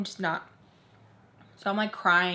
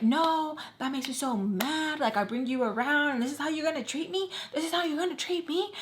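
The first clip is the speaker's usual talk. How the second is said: mock offended friend; 5 semitones higher than usual. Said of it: "She's like".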